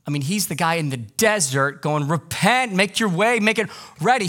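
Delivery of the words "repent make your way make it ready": preaching John. Retold or imitated.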